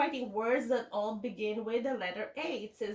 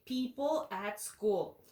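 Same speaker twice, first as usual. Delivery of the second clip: slow model phrase; slower than usual. Shown as a demonstration.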